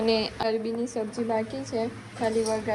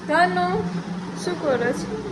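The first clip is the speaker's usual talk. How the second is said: high, loud call of a name; 8 semitones higher, 7 dB louder, slower than usual. Real, not acted. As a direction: Dhanu called out loud and high. Calling out to the child.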